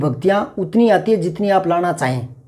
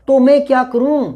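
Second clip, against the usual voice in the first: higher, exasperated what-do-I-do; helpless exasperation; 6 semitones higher than usual. Shown as a demonstration. Teacher acting out a helpless speaker's exasperation. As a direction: throw up your hands asking what to do. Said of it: "पूरा भाव ही दिखाया जा रहा है".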